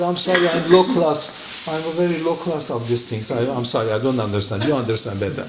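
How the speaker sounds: overdone sorry, barely holding a laugh; mock apology. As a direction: play the humble fool to tease him. Mock apology to angry Milton.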